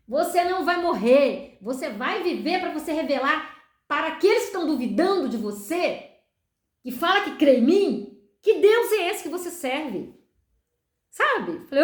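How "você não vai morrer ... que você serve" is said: firm divine declaration. Retold or imitated. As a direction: declare it with rising force, like a commission. Voices God's firm declaration. (declaração firme e enfática)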